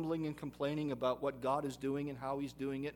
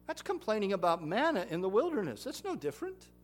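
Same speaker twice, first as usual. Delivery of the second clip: loud and high, driving the point home; emphatic rebuke; 7 semitones higher, 8 dB louder than usual. Acted. Preacher rebuking grumblers, loud and pointed. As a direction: hammer the comparison.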